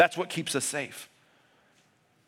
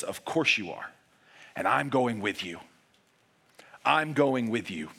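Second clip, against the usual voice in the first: tender reassurance; 4 semitones lower than usual. Retold or imitated. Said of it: "he stares you back in the face and he says".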